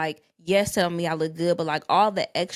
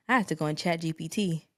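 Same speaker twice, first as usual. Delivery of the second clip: heated and laughing; 7 dB louder than usual. Real, not acted. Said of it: "the Oakland in me is, like, ready to go off".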